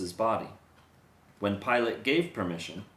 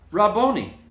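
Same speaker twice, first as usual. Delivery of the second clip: a sudden high, loud cry of recognition; 9 semitones higher, 9 dB louder than usual. A narrator's reading. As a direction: call out his title, overwhelmed. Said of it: "cried out".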